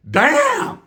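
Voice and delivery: high, loud outcry at the smell; a loud high disgusted yelp; loud disgusted damn. Retold or imitated. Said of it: "I said it loud too".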